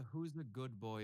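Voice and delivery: very slow, cooing talk to a dog. Shown as a demonstration. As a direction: coo at a good dog, drawn out. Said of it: "It's the ... voice".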